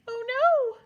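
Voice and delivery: high, loud alarmed cry; tiny mouse crying out in alarm; mouse yelling. Acted. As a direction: yell it in a panic. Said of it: "Mister Mouse yelled".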